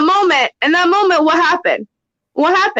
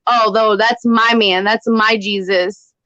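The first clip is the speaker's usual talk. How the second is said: put-on jealous teenage girl; 4 semitones lower than usual. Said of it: "he turned into a little teenage girl with jealousy".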